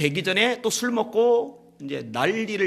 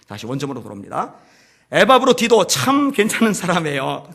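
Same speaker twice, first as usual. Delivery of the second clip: usual speaking voice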